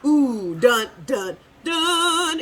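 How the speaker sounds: lightly squeaky cartoon minion; a hint of a silly minion humming suspense. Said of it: "In my minion's voice".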